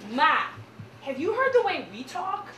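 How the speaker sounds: put-on Midwestern accent. Daughter scolds her mom in a Midwestern accent. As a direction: lean into broad Midwestern vowels. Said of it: "total Midwestern accent".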